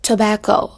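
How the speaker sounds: "Tobacco" with BAC stressed; teacher's careful model of "Tobacco", weight on BAC; stress on second syllable. Shown as a demonstration. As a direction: lean on the middle syllable of "Tobacco". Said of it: "âm thứ hai".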